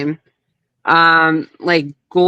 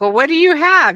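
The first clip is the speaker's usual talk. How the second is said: raised, mock-gruff Hogan voice; imitating Hogan; 10 semitones higher than usual. Guest imitating Hogan asking what she holds, higher mock voice. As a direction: put on a higher Hogan voice to ask. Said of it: "Hogan was like".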